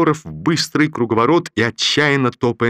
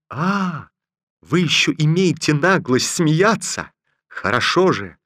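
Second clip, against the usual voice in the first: flaring up; 6 semitones higher, slower than usual. Acted. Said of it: "вспыхнула Раиса".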